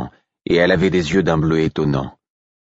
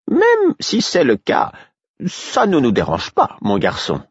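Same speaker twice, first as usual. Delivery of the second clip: put-on high, slow kindly old harper's voice; reassuring father; 9 semitones higher than usual. A narrator's reading. Old harper reassuring the runaway boy, kindly and slow. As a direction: soothe the frightened boy.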